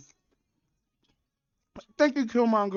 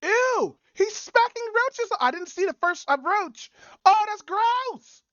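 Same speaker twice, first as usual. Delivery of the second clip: high slow shriek of disgust; 11 semitones higher, 3 dB louder, slower than usual. Real, not acted. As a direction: recoil in real disgust. Reacting to roaches on screen.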